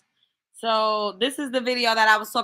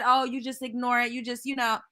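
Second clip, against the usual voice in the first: softer dismissive mimic; mocking dismissive; 4 dB quieter than usual. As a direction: brush it off mockingly. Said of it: "she just said".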